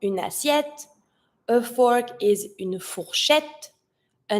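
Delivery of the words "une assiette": une assiette run together through the n; linked words. Shown as a demonstration. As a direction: connect une to the vowel of assiette. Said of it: "and I connect".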